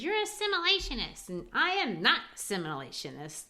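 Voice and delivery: put-on playful young man teasing his girlfriend; Assegai voiced. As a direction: toss the accusation at her playfully. Voicing Assegai teasing Beneatha.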